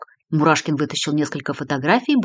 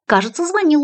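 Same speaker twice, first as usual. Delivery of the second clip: smiling; 10 semitones higher than usual. A narrator's reading. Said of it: "улыбнулась она".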